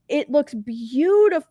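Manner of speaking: hiccuping mid-word; hiccups. Real, not acted. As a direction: cut off by a hiccup. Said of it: "I'm getting the hiccups".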